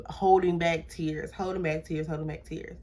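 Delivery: starts softly and fades almost to nothing; fading to quiet. Retold or imitated. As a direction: let each repeat die away. Fighting tears in the car.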